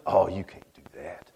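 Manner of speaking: high, sneering put-down voice; mocking naysayer. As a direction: mimic the doubters talking you down. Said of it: "you know what somebody's gonna say?".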